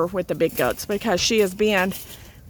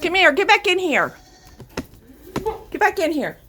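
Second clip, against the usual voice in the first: raised call to stray goats, falling at the end; calling goats back; 7 semitones higher than usual. Real, not acted. Farmer calling loose goats back in, raised and firm. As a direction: call them firmly back into the pen.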